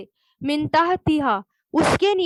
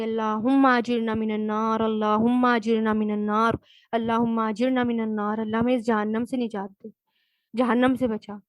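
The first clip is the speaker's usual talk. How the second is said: supplication; 3 semitones lower than usual. Acted. Teacher leads a supplication.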